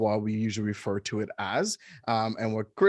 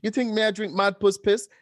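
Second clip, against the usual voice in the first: higher, light Jamaican patois quip; imitating Jamaican patois; 8 semitones higher, 3 dB louder than usual. Host quotes husband's joke to grandma in Jamaican patois. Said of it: "And you're like".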